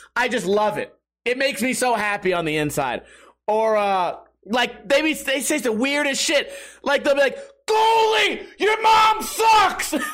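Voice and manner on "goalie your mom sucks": put-on very high, drawn-out drunken heckling scream. Describing a lone drunk fan at a game heckling the goalie; imitating a drunk fan screaming. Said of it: "one guy with this super loud voice just screaming".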